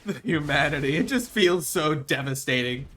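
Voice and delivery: loud, theatrical lament; mock devastation. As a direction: wail over the tragedy, hammed up. Mock lament over devastating game.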